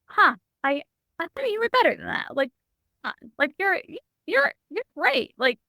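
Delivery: a light high imitation of a kind father; soft gentle father. Father gently telling his daughter he believes in her, lightly voiced. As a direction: lift it up softly, encouraging. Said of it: "It was like a soft".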